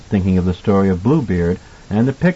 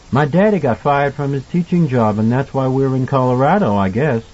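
lightly voiced child, pitched higher; candid little boy; 5 semitones higher than usual. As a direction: explain it openly, like a small boy. Voices young Danny.

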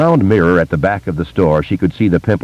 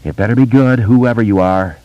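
sleepy mumble; 4 semitones higher than usual. A narrator's reading. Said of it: "Kay's sleepy voice mumbled".

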